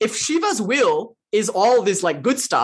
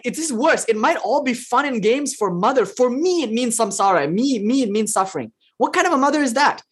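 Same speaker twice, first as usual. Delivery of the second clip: higher, complaining outrage; mock outrage; 5 semitones higher than usual. Devotee complaining about the Mother, mock outraged and high. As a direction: protest as the wronged devotee.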